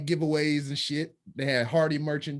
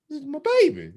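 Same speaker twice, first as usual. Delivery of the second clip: high, emphatic protective call; guard what is yours; protective cry; 13 semitones higher, 4 dB louder, much faster than usual. Retold or imitated. Defending his pregnant partner, a high emphatic cry. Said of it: "And I was just like".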